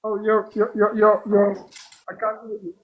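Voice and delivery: breaking up call audio; choppy connection. Real, not acted. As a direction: voice cutting in and out. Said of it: "you're very choppy".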